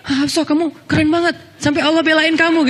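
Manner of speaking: high astonished praise; amazed father. Acted. Umar amazed at his daughter, high and astonished. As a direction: gasp it out in wonder.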